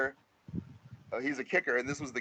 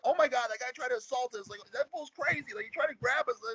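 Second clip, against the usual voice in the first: put-on shocked girls; 11 semitones higher than usual.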